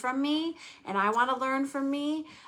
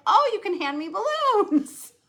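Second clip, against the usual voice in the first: laughing; 11 semitones higher, 6 dB louder than usual. Retold or imitated. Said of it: "I was like".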